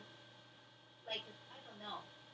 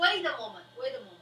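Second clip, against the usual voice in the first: sudden protest; 11 dB louder, faster than usual. Acted. Player interrupts in character.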